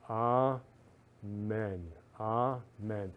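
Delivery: slow, earnest prayer; spoken prayer. Acted. Host praying for Ukrainian families on the show, earnest slow prayer. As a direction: pray over the families, unhurried.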